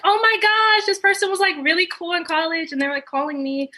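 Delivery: high, bright excited gush; imitating her own excitement; mock excited. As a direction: gush like a fan getting the call. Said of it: "I get really excited".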